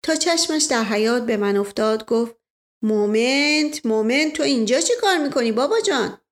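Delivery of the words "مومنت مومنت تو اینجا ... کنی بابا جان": Asdollah Mirza. Acted. Asdollah Mirza wakes, greets. (صدای شوخ اسدالله میرزا)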